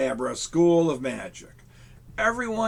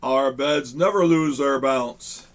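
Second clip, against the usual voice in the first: sales pitch; 6 dB louder, slower than usual. Acted. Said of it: "told the crowd".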